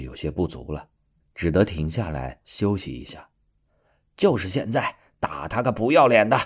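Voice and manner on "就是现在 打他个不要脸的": little fox voice. Acted. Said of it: "小狐狸的声音".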